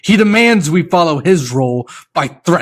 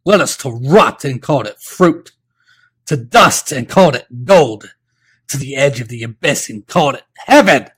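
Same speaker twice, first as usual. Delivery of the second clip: high, loud fiery yell; 7 semitones higher, 9 dB louder than usual. Acted. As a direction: rage at the king.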